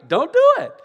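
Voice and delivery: loud laughing repeat of a dad's warning; emphatic warning. Retold or imitated. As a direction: hammer home the rule to your son.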